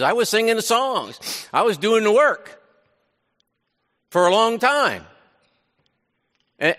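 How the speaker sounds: a weary believer pouring out his grievance; bitter complaint. Acted. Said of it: "There's a major, um, admission".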